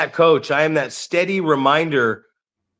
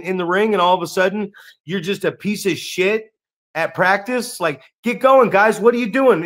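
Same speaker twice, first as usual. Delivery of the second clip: coach tirade; 4 semitones higher than usual. Retold or imitated. Coach scolding a lazy trainee in the ring, angry. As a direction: berate him like a fed-up coach. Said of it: "I'm like".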